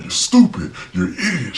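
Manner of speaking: high put-on voice of a ranting mom; mocking the mom. Nanny mimicking the mom calling him stupid, high mock voice. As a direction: squeak out her insults in a mocking falsetto. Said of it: "She's like".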